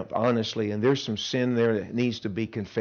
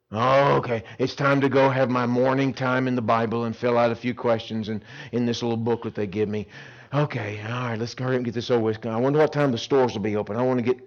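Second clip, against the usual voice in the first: reluctant chore; 3 semitones lower than usual. Acted. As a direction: rush through devotions. Mocking reluctant camper.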